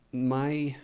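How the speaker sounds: quietly trying not to get emotional; holding back emotion. Real, not acted. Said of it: "I'm not gonna get emotional".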